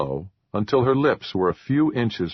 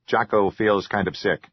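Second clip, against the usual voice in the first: lightly voiced troll, a touch queasy; small creature voice, mildly sick. A narrator's reading. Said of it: "Jocko said".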